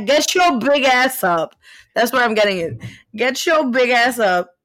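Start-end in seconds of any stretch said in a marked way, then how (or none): 0.0-1.5 mild mock yell. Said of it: "yelled at my great uncle". 3.1-4.5 mild mock yell. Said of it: "yelled at my great uncle".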